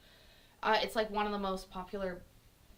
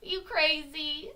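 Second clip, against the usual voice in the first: slow, higher-pitched questioning; incredulous inner voice; 5 semitones higher, 4 dB louder, slower than usual. Acted. Logical brain questioning her, slow mild disbelief. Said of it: "very small part of me that has a logical brain".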